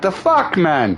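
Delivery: shoots high in pitch, waking up confused; mock startled as if just jolted awake; groggy disbelief. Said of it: "You're like".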